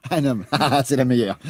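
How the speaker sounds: laughing disbelief; incredulous laugh. Acted. Mocking laugh at the idea of a man waiting for him. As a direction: scoff it off with a laugh.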